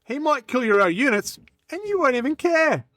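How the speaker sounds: animated scripted hype with swooping pitch; lively army-hype monologue; sales pitch speech. Acted. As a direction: sell the character, punching each phrase opening. Performs timed recruitment speech.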